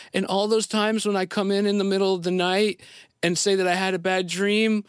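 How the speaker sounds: imitating his little daughter.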